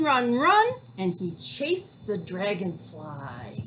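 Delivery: gentle storybook narration for little ones; reading to children. Acted. Reads picture book to kids.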